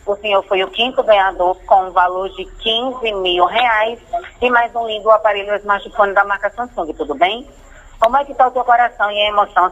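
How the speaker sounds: upbeat telemarketer pitch; excited prize announcement. Acted. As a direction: sell the big win with energy. Scam caller's prize pitch.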